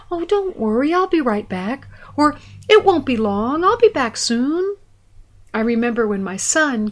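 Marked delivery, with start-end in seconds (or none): 0.1-4.8 put-on reassuring a child. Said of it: "we'd reassure the child with words like".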